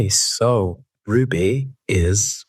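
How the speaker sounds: slow, careful posh podcast voice. Real, not acted. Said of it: "You've got a posh voice".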